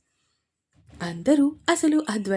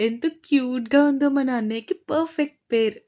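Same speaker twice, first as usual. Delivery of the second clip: excited; 3 semitones higher than usual. Acted. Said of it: "excite అవుతూ".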